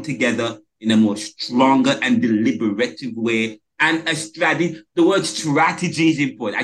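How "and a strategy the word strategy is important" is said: "strategy" stumbled over, syllables tangled; tripping over strategy. Real, not acted. Panelist arguing Caribbean needs strategy, tongue-tied on "strategy". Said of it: "I can't say that word".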